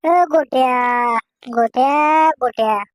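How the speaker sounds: low, drawn-out name call. Acted. Calling out to Gotya, long drawn-out call. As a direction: call the name repeatedly, stretching it.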